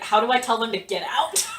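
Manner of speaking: laughing, helpless; helpless laughing plea; laughing whine. Retold or imitated. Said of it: "he's like".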